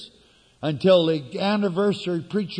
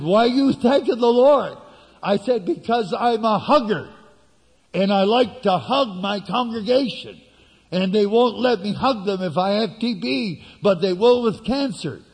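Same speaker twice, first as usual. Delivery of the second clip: excited retelling; 5 semitones higher, 4 dB louder than usual. Retold or imitated. Doctor and patient exchange retold.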